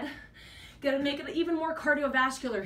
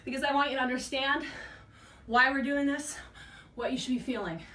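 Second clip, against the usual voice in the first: talking while winded; breathless between reps; out of breath. Real, not acted. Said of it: "I'm definitely out of breath".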